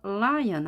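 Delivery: "lion" with a held L before the vowel; pre-set L. Shown as a demonstration. Teacher shows lips ready beforehand, "lion" with lengthened L. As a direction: start "lion" on a prepared L, "(eul)-lion". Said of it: "입술을 이미 길게 늘린".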